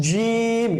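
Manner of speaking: জিম said with a firm, hard j, no air escaping; hard jim. Shown as a demonstration. Teacher models the letter for pupils, জিম pronounced hard. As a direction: hold জিম firm and tight, letting no breath out. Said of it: "but শক্ত হবে".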